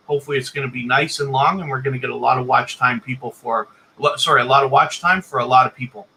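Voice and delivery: pressured rushing speech. Real, not acted. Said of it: "I'm talking a mile a minute here".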